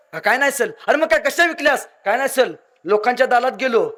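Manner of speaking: put-on a lisping village boy saying "दालात" with an L where the R belongs; बोबडं बोलणं, "दालात" असा उच्चार. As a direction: play a cheeky kid who turns his R sounds into L. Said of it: "जे बेनं बसलेलं बोबडं".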